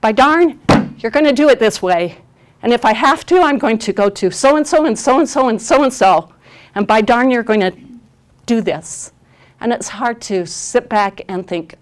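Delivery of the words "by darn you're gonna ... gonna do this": loud, higher, insistent by-darn outburst; angry parent demand. Retold or imitated. Parent at the school meeting demanding their way, loud and angry. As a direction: stamp your foot and lay down the law. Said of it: "we do want to say".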